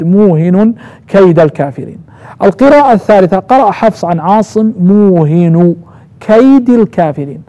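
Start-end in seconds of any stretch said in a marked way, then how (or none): 0.0-2.0 موهن as muuhinun, single h; nunation without doubling. Shown as a demonstration. Teacher repeating the second reading, nunated موهن. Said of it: "بالتنوين ولكن بدون تشديد". 4.8-7.4 موهن as muuhinu, كيد as kaydi; single damma, then kasra. Shown as a demonstration. Teacher showing the third reading, موهن كيد as muuhinu kaydi. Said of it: "يعني بضمة وكسر".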